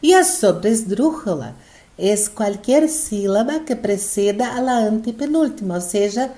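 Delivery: usual speaking voice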